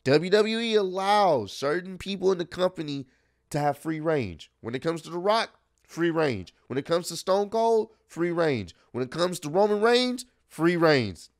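each name rises, then free range drops firmly; rhythmic refrain. Real, not acted. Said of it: "That's kinda funny saying it like that".

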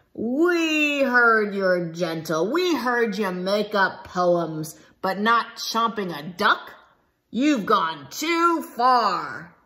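slow, menacing growl; a pack scolding Leonard, slow; growling lions. Acted. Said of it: "The fierce lions growled and roared".

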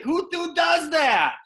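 high, slow, shouted disbelief; can you believe this guy; storyteller amazed at his manager, shouting in disbelief; incredulous. Real, not acted.

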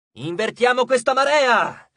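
high, drawn-out rallying cry; rally everyone to turn the fight; exclaiming. A narrator's reading. Nico urging Frank in battle, rallying cry. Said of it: "esclamò".

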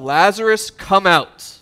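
loud summons of a dead friend; calling out loud. Acted. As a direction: call him out of the grave with authority. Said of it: "Jesus yells out".

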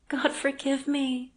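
a lightly voiced remorseful young wife; Anna's voice. A narrator's reading. Anna voiced in the story.

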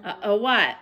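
hushed whispered question; a nervous bedtime whisper. Acted. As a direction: whisper it so nobody hears. Worried kid in dark bedroom.

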